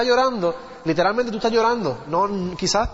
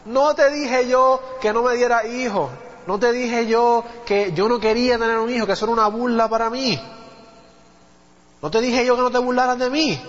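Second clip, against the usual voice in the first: anguished lament; 5 semitones higher than usual. Retold or imitated. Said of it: "empieza ella con su congoja".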